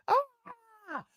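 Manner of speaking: very high, slow strained whine; mock groan. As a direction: stretch it out in a silly falsetto. Voicing Rafi after falling.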